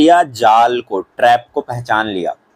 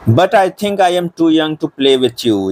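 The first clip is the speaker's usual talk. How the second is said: each word read out slowly for the class; lightly voiced Bambi, very slow; careful drawn-out read; slow reading aloud; 4 semitones higher, much slower than usual. Shown as a demonstration. Teacher reads Bambi's reply.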